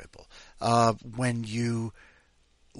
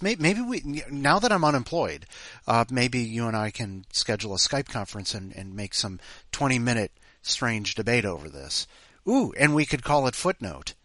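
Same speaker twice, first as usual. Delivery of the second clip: excited planning. Real, not acted. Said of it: "we could make a whole other podcast".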